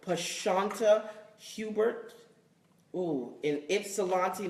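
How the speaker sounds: slow, hesitant reading of an unfamiliar name; tentative, drawn-out name reading; careful sounding-out. Real, not acted. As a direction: feel out each name cautiously. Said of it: "I don't wanna say your name wrong".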